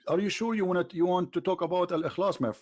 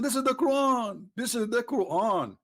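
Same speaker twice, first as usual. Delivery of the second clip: raised, exasperated insistence; getting angry; 4 semitones higher than usual. Pretend. Insisting to a caller who wants to change the subject, getting angry. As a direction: hammer the point home, losing patience. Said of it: "I'm getting angry".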